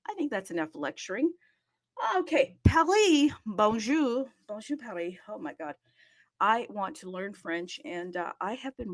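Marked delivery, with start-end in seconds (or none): 2.2-4.3 high and loud, calling out to Paris; higher, louder cheerful call to Paris; bright loud greeting. Real, not acted. Host greets Paris loudly. 4.5-5.1 quiet afterthought greeting; soft repeat. Real, not acted.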